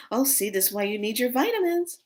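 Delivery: high, singsong nurse voice; dream nurse. Retold or imitated. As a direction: imitate a patronizing nurse, rising at the end. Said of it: "She goes".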